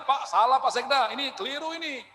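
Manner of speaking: blunt public rebuke. Retold or imitated. To the Sekda in front of everyone, mildly blunt rebuke. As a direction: call out the superior's mistake openly, a touch sharp. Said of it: "kita menegur orang juga, Bu, ada etikanya".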